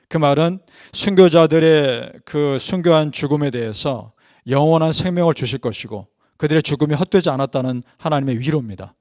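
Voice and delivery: ordinary talk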